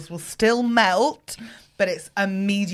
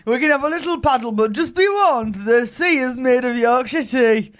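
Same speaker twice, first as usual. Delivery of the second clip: put-on Yorkshire accent; 3 semitones higher, 4 dB louder than usual. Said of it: "can I try it again".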